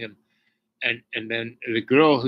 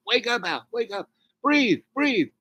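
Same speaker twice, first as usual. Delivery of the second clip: much higher desperate pleading; retold screaming; 10 semitones higher than usual. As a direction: plead desperately, pitch climbing. Crowd screaming to wake up.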